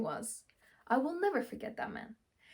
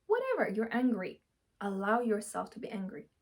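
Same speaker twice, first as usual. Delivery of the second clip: ordinary delivery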